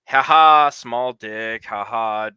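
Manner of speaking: jeering fake laugh, loud first burst then easing off; mocking taunt. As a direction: imitate taunting your friends with a mock laugh. Re-enacting his mockery of Irish friends.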